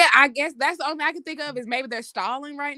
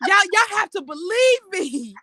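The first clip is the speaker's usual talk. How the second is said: begging for my life; 4 semitones higher than usual. Retold or imitated. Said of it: "That man was pleading for his life".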